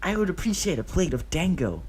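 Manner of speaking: high whisper of a polite order. A narrator's reading. Obito ordering dango from the hostess, whispered.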